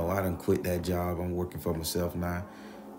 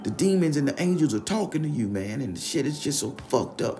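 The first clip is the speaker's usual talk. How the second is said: desperate Ralph; 8 semitones higher, 4 dB louder than usual. Retold or imitated.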